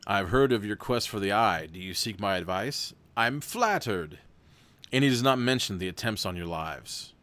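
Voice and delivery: even, steady storybook read; story narration. A narrator's reading. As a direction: read the gamebook aloud to the viewers. Reads gamebook narration.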